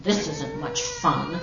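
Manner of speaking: high-pitched storybook grumble; grumbling. A narrator's reading. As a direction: complain like a put-upon elephant. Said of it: "the poor elephant grumbled".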